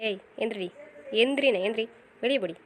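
sharp angry order to get up and leave. Acted. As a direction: throw her out in a rage. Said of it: "ஏன்க்கா இவ்வளோ கோவப்படுறீங்க".

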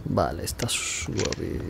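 hushed whisper while sneaking. Real, not acted. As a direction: breathe the words out softly. Susurro mientras se esconde. (susurrando en voz baja)

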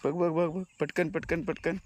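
high, quick urging of a dog; excited egging on. Real, not acted.

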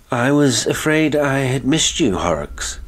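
high, loud, uneasy greeting; unsteady voice. A narrator's reading. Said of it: "His voice was unsteady".

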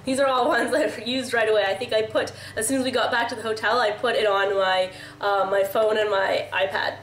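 stuffy nose, nasal and congested. Real, not acted. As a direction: talk through a blocked nose. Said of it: "my nasally congested voice".

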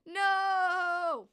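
loud, high, long-held "no"; mock-anguished cry, stretched out; drawn-out mock wail. Vlogger lamenting cancelled shows to viewers, drawn-out mock wail.

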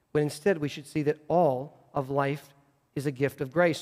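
calm, searching reproof; gentle correction. Acted. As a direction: quietly set someone straight as a wise teacher. Voices Jesus gently correcting the complainer.

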